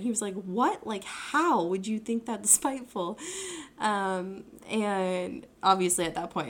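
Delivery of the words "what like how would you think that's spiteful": imitated puzzled protest, not angry; acted-out baffled questioning; retold bewilderment. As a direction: ask in mild disbelief. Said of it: "he wasn't angry. He was just like".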